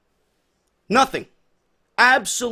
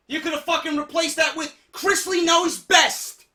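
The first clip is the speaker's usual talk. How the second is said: angry shout; 6 semitones higher than usual. Real, not acted. Ranting at WWE.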